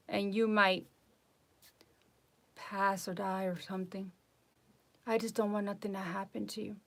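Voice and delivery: imitating a doctor's gentle concern. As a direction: break bad news softly, with pauses, as if to family. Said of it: "like concerned, like if he was a family member".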